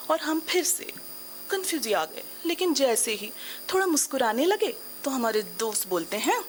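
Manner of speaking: theatrical middle-aged woman, lively and rueful; middle-aged woman monologue. Acted. Woman confides her midlife confusion to the audience, theatrical storytelling. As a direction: tell it as a stage monologue, with dramatic pauses.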